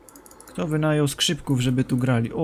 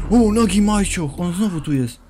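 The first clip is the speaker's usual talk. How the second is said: loud high alarmed cry; startled shout; 6 semitones higher, 7 dB louder than usual. Real, not acted. To the boys as it returns, loud high alarm. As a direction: yell it as it pops up. Figure reappears.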